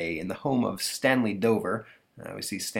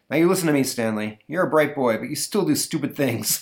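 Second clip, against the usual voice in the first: lecturing dad; 5 semitones higher, 3 dB louder than usual. Acted. Father lectures.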